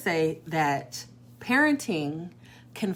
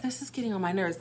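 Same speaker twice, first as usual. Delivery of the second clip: softer quoted complaint; tossed off under the breath; soft "This is getting on my nerves"; quoting herself, low-key; 6 dB quieter, faster than usual. Retold or imitated. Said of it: "if I ever said".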